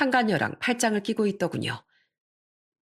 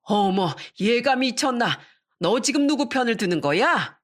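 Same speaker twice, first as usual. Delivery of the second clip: startled mother-in-law; 3 semitones higher than usual. Acted. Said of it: "깜짝 놀라".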